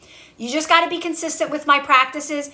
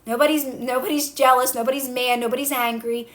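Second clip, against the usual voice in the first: calm self-talk. Shown as a demonstration. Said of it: "You gotta relax your body".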